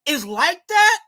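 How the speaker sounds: angry fan yelling at the coach; exasperated shout. Real, not acted. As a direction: stretch it out like you're yelling at the TV.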